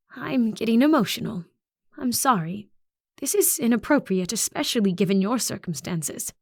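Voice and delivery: a principal fighting back tears; tearful principal. Acted. Narrator voices Principal Orr.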